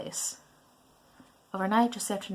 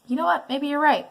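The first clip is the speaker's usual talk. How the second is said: sarcastic; 6 semitones higher, 3 dB louder than usual. Shown as a demonstration. Retake, louder and higher.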